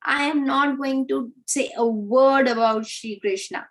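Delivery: high-pitched imitated pleading; lightly acted frantic begging from outside; mild mock yell. Jatila begging the snake from outside the door, mild mock yell. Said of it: "she starts yelling".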